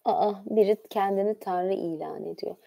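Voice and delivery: ordinary delivery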